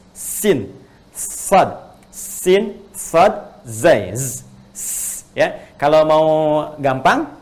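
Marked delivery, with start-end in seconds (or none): 0.1-4.4 sin, sad and zai said one by one, stressed and a little louder; letter names demo. Shown as a demonstration. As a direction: articulate each Arabic letter like a tajwid teacher. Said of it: "Sin, sad dengan zai".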